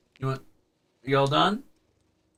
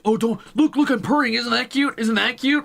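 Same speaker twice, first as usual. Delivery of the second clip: high, loud mock cat voice; imitating the cat; 10 semitones higher, 4 dB louder than usual. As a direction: voice the cat as a smug little kid. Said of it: "He's like".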